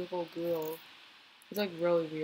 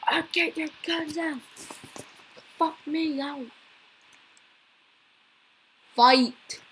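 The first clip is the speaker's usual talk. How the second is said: higher put-on voice of a joking cop scare; mock tough voice; 5 semitones higher, slower than usual. Kid joking about a cop, mock action voice. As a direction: ham it up like an action hero. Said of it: "I'm like".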